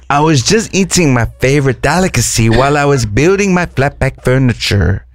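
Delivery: lightly put-on Swedish accent, slowing at the end; a hint of Swedish, bragging about furniture. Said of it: "the only giveaway was the flat pack furniture".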